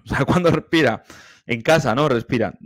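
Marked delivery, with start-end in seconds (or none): 0.0-1.0 laughing. Real, not acted. Coach laughing in amazement at how long the singer holds her breath. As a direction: repeat the question through a laugh, a touch louder.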